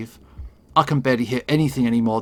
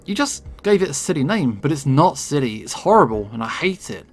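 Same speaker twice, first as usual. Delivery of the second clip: furious outburst; 2 semitones higher than usual. Acted. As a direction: lash out at him in despair. Heather yells at Micah.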